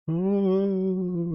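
high, drawn-out spooky "oh"; ghostly wail. Acted. Imitating old storybook ghosts, ghostly wail. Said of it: "hear a ghost saying things like".

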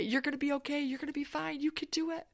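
soft reassurance. Retold or imitated. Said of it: "She's like".

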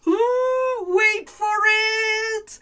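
high suspense tease; excited. A narrator's reading. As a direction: build it up, then gasp. Dramatic build to witch reveal.

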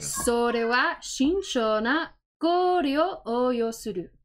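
slow, dramatic anime delivery; anime inflection. Shown as a demonstration. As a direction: play it like an anime line. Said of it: "I'm doing more of, like, an anime inflection".

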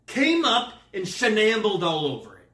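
high, loud comic complaint; hammed-up grievance; mock outrage. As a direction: raise the voice in mock indignation. Mock complaint about ruined toast.

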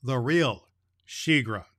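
put-on gentle read-aloud for children; story narration. A narrator's reading. Santa reading a chapter to the children.

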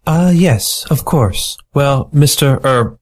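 a client smitten with the otter; admiring mink. Acted. Mink introduces herself.

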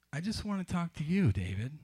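a touch of flirting, understated; flirtatious. Acted. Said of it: "she responded flirtatiously".

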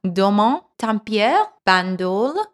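put-on wine label read in a French accent; careful attempt at French pronunciation, name by name; French accent, each name set apart. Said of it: "should I do my French accent?".

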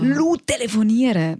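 imitating an indignant scolder, words dragged out; imitated scolding. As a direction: stretch it out like a scandalised old woman. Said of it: "wie sie mich anwäffelt".

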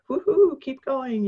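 high, loud cheer of encouragement; cheering woo-hoo. Retold or imitated. Mentor cheering her on, high excited woo-hoo.

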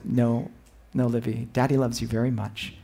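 low, soft reassuring dad; soft loving father. Retold or imitated. Dad telling his daughter he loves her, softly. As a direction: gently reassure your little girl.

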